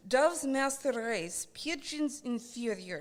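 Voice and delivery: slow, loud, proclaiming slogan; mock propaganda. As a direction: declaim it like a dictator.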